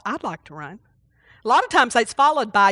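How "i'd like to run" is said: very soft, low inner thought "I'd like to run"; inner prompting. Shown as a demonstration. Preacher voicing a quiet inner prompting, soft and low. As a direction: hush it like a thought inside you. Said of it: "I have that little thought".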